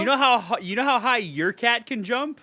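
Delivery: ranting at a reviewer who doubts lions, loud and fed up; exasperated rant. Real, not acted.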